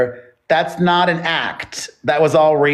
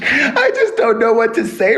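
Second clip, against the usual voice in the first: high squeaky laughter through words; can't stop giggling while answering; laughing; 6 semitones higher, slower than usual. Real, not acted. Caught off guard, laughing it off.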